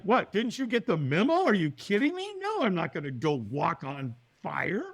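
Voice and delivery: high-pitched mock disbelief; incredulous refusal. Man asked to walk on fire, incredulous refusal. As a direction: protest as if the question is crazy.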